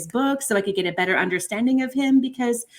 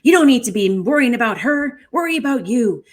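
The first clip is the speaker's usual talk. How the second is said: loud, higher scolding that eases off; retold yelling; 3 semitones higher, 5 dB louder than usual. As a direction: lecture them harshly, then let it settle. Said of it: "he was yelling at them".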